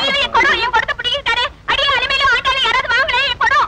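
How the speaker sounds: high-pitched frantic wail; panicked outcry. Acted. Village woman crying out as her pot is grabbed, panicked. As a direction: cry out in alarm, voice shooting up high.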